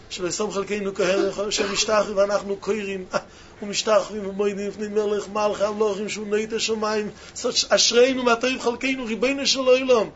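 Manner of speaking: fast, rushed davening through the words; rapid prayer recital. Acted. Preacher rattling off Aleinu to his students, fast. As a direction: race through the prayer text, almost by rote.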